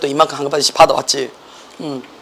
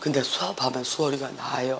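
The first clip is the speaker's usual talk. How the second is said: very soft, weak, failing voice, words barely out. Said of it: "이렇게 냈어".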